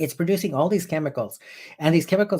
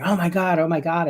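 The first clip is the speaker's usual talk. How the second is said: mock panicked scream; 5 semitones higher than usual. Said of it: "starts screaming".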